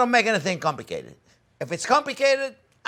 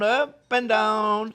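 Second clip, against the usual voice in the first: very slow demo; 4 semitones higher, much slower than usual. Shown as a demonstration. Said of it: "See, look, look".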